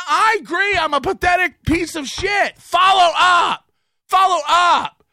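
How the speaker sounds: furious, spaced-out shout; angry shout. Real, not acted. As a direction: yell at him to answer. Angry rant at Kevin.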